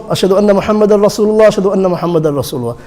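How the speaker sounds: both Ashhadu anna phrases run quickly as one; no break until the final Rasulullah; two together. Shown as a demonstration. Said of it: "pray these two together".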